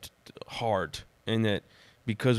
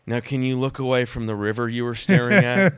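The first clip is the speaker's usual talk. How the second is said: louder, mock-dramatic delivery; dramatic storyteller; 2 semitones higher, 6 dB louder than usual. Friend teasing him at the end of a story, mock-dramatic. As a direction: gently send up a dramatic storyteller. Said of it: "I'm a dramatic person".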